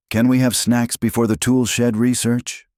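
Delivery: high-pitched cub voice; child asking. A narrator's reading. Hungry cub asking Mama for snacks, high pleading question. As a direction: ask in a high, hopeful child's voice.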